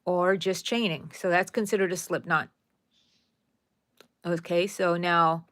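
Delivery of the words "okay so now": talking through a yawn. Real, not acted. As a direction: yawn while saying it. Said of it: "I'm sorry, I was yawning".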